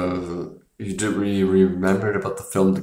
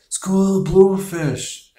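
imitating the frantic lifeguard; 12 semitones higher, 4 dB louder, slower than usual. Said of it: "the guy's like".

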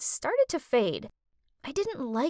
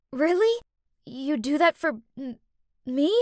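spluttering; 2 semitones higher than usual. Acted. Girl stunned that her friend will lend money, spluttering. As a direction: stumble over the words, amazed. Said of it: "I spluttered out".

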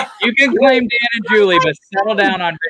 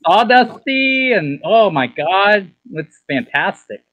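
put-on Valley Girl accent. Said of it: "in a Valley Girl accent".

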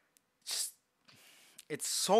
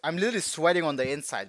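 excited; 3 dB louder, faster than usual. Real, not acted. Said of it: "because I'm so ex".

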